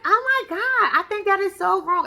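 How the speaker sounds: high, dramatic shocked gasp; imitating the friend clutching her pearls; mock gasping friend. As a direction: play the scandalised friend. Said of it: "the friend is like".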